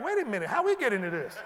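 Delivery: quick, laughing mock panic. Philistines suddenly worried about the fight, laughing mock panic. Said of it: "They're like".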